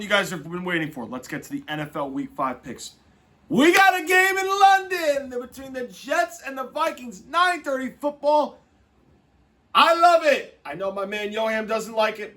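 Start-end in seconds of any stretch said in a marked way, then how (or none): 3.5-10.6 high, loud and stretched out, buzzing about early football; excited. Real, not acted. Host hyping the London Jets-Vikings morning game, excited. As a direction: gush about the game like it's Christmas morning.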